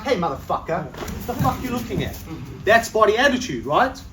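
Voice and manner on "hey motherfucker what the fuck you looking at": a hint of a confrontational street challenge; aggressive tough guy. Shown as a demonstration. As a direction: throw it at him like you own the space. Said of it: "I'm like".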